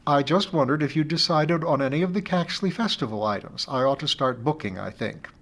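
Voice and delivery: a friend gently teasing her over the phone; friend Amy, fond teasing. Acted. Amy's voice voiced on the phone.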